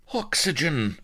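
high-pitched gasped plea; weak gasp. A narrator's reading. Drowning Blood begging for air, weak high gasp. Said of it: "gasped Blood weakly".

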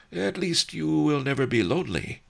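high, dry teasing voice, "Woofy" with a mocking rise; an amused old master needling his friend; sly old sage. A narrator's reading. Master Li teases the lovesick ox, dry and amused.

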